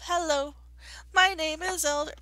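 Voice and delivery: lightly voiced door-to-door elder; a hint of a sing-song missionary greeting; missionary rhythm. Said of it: "I may have had a little bit of the rhythm of".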